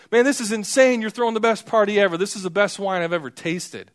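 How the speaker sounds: high, loud and fast, bursting with amazement; excited rave. Retold or imitated. Feast master raving to the groom about the wine, high and loud. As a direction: gush like you've never tasted better.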